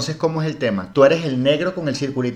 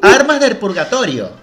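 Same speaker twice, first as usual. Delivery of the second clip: laughing; 7 semitones higher, 6 dB louder than usual. Pretend. Repeated, laughing.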